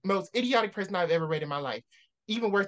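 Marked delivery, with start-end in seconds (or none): 0.0-0.3 exasperated. Real, not acted. Ranting at book character.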